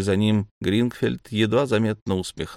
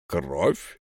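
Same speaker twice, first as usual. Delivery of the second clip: astonished; 5 semitones lower, 4 dB quieter than usual. A narrator's reading. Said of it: "отразилось изумление".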